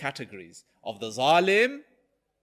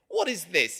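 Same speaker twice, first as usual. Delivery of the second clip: retold outcry, a bit louder; mildly acted yelp of protest; mock howl; 3 semitones higher, 5 dB louder than usual. Customer protesting at the barber's needle, mock howl. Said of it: "gives a big howl and he says".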